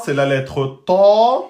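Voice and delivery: emphatic letter model. Shown as a demonstration. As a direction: say "ta" with a heavy dark a. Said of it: "une lettre emphatique".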